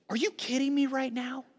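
high-pitched, held-back disbelief; acted, indignant question kept from shouting; incredulous rebuke. Peter confronts Jesus aside, incredulous rebuke.

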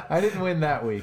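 chuckling while speaking; laughing. Real, not acted. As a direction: laugh through the line. Laughing at his own app.

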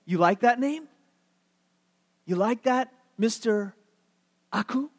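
mock-polite bully; taunting. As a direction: needle him with the new name, pausing before the last word. Bullies taunting Meshach over his name.

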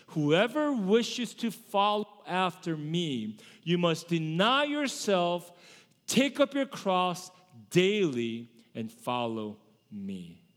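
slow, deliberate scripture quote; scripture recitation. Acted. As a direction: recite it slowly, pausing between phrases. Recites the words of Jesus from scripture.

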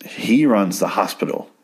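pointed emphasis on "he"; emphatic repetition. Real, not acted. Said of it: "I'm saying that over and over".

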